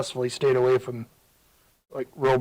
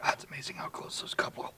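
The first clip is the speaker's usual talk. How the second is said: choppy call audio; 11 dB quieter than usual. Real, not acted. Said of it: "Dude, is your microphone okay?".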